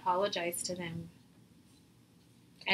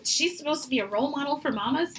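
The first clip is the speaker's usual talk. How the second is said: higher mock-indignant judging; lightly hammed-up outrage; mock scandalized critic; 6 semitones higher, 3 dB louder than usual. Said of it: "someone going".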